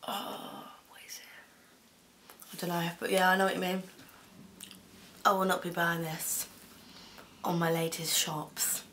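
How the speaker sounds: talking between bites; chewing while talking. Real, not acted. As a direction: mouth partly full of chocolate. Seen 1: Left speaker bit the bar earlier, holds it, mouth working between words.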